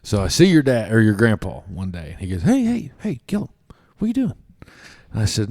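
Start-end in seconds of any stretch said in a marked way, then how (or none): 2.4-4.3 mimicking grandpa's call; coach calling out. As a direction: hail the kid across the lot.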